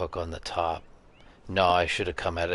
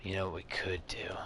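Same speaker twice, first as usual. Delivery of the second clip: whispering; 6 dB quieter than usual. Real, not acted. Quiet planning.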